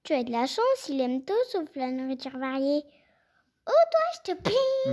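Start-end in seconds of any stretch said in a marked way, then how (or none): 3.7-4.9 voiceless magic whisper. Acted. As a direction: breathe the spell. Magic spell.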